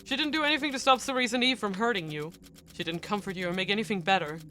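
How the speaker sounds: loud indignant scolding; angry rant. Acted. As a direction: tear into her, furious. Nils berating her.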